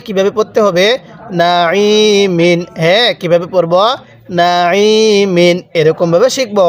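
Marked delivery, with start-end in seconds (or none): 1.4-2.6 নাইমিন drawn out, the ই pressed from the throat as Arabic ain. Shown as a demonstration. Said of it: "আইনটা যদি গলার মধ্যে চাপ দিয়ে পড়েন". 4.4-5.6 নাইমিন drawn out, the ই pressed from the throat as Arabic ain. Shown as a demonstration. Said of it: "আইনটা যদি গলার মধ্যে চাপ দিয়ে পড়েন".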